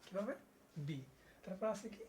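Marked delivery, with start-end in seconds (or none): 0.8-1.0 বি released from closed lips; lips-together B. Shown as a demonstration. Teacher repeating B after explaining lips, crisp demonstration. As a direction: model বি using both lips. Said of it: "দুই ঠোঁট একসাথে".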